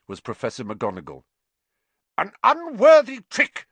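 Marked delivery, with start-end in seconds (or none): 2.2-3.7 loud, high, outraged shout. A narrator's reading. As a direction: shout it in utmost fury. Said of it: "she was shouting".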